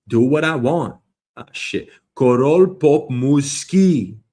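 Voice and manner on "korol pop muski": loud, very slow, drawn-out syllables; mock-Russian proclamation. Host attempting king of pop in Russian, grandiose. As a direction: announce it ponderously and loudly.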